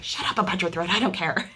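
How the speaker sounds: retelling a snappy brush-off through laughter; mock dismissive, laughing. Wife recalling telling husband off, laughing. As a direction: brush him off while laughing. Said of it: "but I was like".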